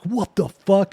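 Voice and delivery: high, sudden startled cry; startled high "what the". Retold or imitated. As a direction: jolt up as if spotting someone. Shocked at silhouette.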